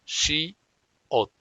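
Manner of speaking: "she" with sh, then "ot" ending in an unreleased t; teacher demo of "she ot"; Korean syllables. Shown as a demonstration. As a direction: say "she, ot" as two clear syllables. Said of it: "es ot".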